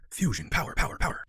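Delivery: fading whispered echo of power; mock echo. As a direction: make power echo away like a reverb. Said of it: "when I say it like that".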